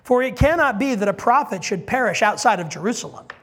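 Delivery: dry mocking jab; sarcastic. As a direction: let the irony drip. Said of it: "I want you to hear the sarcasm in this".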